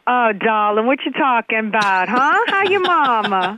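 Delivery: put-on a playful taste of her childhood New Orleans accent. Shown as a demonstration. Showing the radio hosts her old New Orleans accent, playfully. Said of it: "That cost me a lot of money to get rid of that accent".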